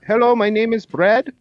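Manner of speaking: high, put-on call-center greeting; imitated telemarketer. Telemarketer introducing himself under a false name, high put-on voice. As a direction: mimic a phone scammer's perky opener. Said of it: "it's like".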